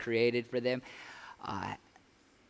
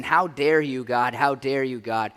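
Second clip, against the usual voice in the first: mock angry challenge; 3 semitones lower, 4 dB louder than usual. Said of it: "dictate me saying".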